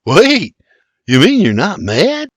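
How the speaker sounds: surprised mumble. Acted. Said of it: "he mumbles".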